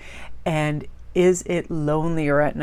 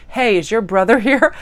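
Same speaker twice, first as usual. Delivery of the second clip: brash, higher, louder demand from a stranger; brash greeting; 5 semitones higher, 6 dB louder than usual. Retold or imitated. Shannon to the speaker on turning up at her house, brash. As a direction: call it out boldly at the door.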